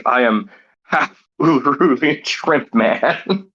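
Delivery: mock villain reveal. Husband's big reveal on throne.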